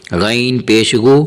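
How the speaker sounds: slow, thick gh in غین and غو; heavy ghain. Shown as a demonstration. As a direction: spell it out with a full, heavy غین. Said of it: "یہاں حرف غین کو موٹا کرے". (غین کو موٹا کر کے، آہستہ)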